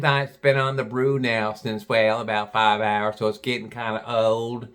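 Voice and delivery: chatty mock Southern shop girl; deep Southern accent. Gal selling snacks to visitors, mock Southern accent. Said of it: "She had a real deep Southern accent".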